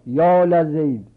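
loud, slow appeal to Zayd; calling out for help. Shown as a demonstration. Teacher acts a call to Zayd for help, loud and slow. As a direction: cry out to him for rescue.

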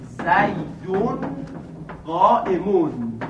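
زیدون قائمون drawn out as zaydun qa'imun; very slow zaydun qa'imun, both ending -un; another dialect reading. Shown as a demonstration.

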